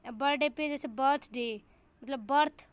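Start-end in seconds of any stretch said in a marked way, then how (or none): 2.3-2.7 बर्थ pushed with extra force; syllable stress. Shown as a demonstration. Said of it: "बर्थ पे ज़्यादा stress होता है ना".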